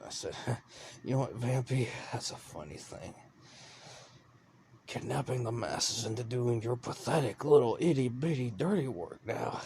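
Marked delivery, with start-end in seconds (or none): 0.4-1.0 mocking laugh. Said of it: "I laughed". 1.0-9.6 loud, higher mocking taunt. Man mocking the vampire wife who kidnaps the masses, loud taunt.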